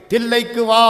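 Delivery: a booming heavenly command; divine voice from the sky. Acted. A voice from heaven summons Manikkavasagar, ringing out loud. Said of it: "அங்கிருந்த அசரீரி வாக்கு".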